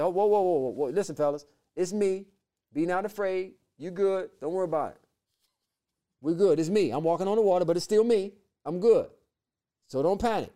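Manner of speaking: soothing, unhurried reassurance; calming frightened friends gently; calm and cool Jesus. Retold or imitated. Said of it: "Just as calm and cool".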